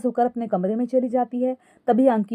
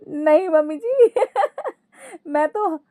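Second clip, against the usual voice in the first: high cackles breaking up a higher-pitched excuse; laughing protest; 10 semitones higher than usual. Acted. Daughter-in-law excusing herself to mother-in-law, laughing helplessly. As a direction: start explaining, collapse into acted laughter. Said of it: "Ankita हंसते हुए फिर से बोली".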